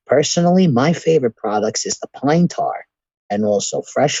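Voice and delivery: ASMR radio ad voice. Shown as a demonstration. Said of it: "quick sponsor in A S M R radio voice".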